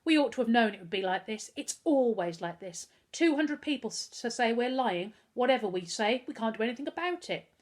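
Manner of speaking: a touch of defeated misery; miserably. Acted. Boy miserably telling his brother it is useless, defeated. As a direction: say it hopelessly. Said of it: "Harvey said miserably".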